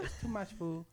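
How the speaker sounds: lightly put-on Asian accent, imitating a chef; an Asian accent, done as a jab at the chef; mock Asian accent. Mimicking the sushi chef for friends in a mock Asian accent. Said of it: "Just do the accent".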